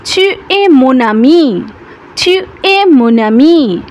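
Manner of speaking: slow, carefully spaced French; slow model sentence. Shown as a demonstration. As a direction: spell it out slowly for learners.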